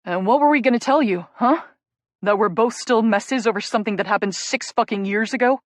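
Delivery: loud, raw, building to a near shout; anguished loud confession rising to a shout; anguished outburst. Acted. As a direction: hurl it at her, hurting. Jake's anguished outburst at Rachel.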